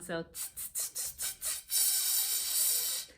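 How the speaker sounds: tss tss hissed softly; flat tire sound. Shown as a demonstration. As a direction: let the air out like a flat tire. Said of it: "do that flat tire sound".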